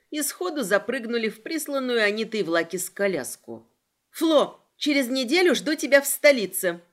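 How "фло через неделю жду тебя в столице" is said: loud, raised-pitch call; shouting. A narrator's reading. Heroine to Flo from the departing carriage, shouting. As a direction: call it out across a distance. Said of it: "прокричала я".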